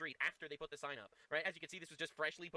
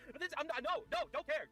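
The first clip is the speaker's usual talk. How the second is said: loud dismissive; 9 semitones higher, 4 dB louder than usual. Real, not acted.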